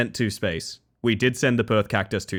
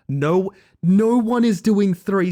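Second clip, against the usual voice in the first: raised, higher-pitched indignant refusal; pissed off; 8 semitones higher, 5 dB louder, much slower than usual. Real, not acted. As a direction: protest hotly, punching out the refusal. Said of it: "No, I'm pissed. I'm mad about it".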